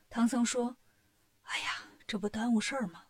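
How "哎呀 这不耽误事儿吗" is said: worried whisper. Acted. Sick monk worrying.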